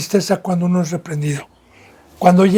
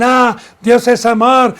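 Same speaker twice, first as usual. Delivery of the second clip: mildly raised, slow mock of hardened scoffers; 4 semitones higher, 3 dB louder, slower than usual. Preacher voicing scoffers brushing off rebuke, mild mocking tone. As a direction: lightly imitate someone brushing off a rebuke. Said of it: "se burlan y dicen".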